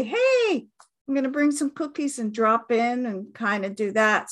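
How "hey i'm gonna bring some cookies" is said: cheery offer. Retold or imitated. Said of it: "and say".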